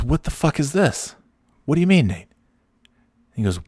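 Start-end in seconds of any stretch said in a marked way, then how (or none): 0.0-1.1 higher voice, half-laughing outrage; mock-indignant, pitched up; Nate's outraged question. Friend retells Nate finding his name, higher outraged. 1.7-2.3 higher innocent question; playing dumb. Narrator dodges Nate's question, higher innocent voice. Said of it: "feigning ignorance to Nate".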